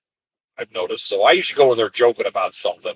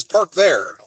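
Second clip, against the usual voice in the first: bossy order; 7 semitones higher than usual. Retold or imitated. Yard driver repeats order, pointing.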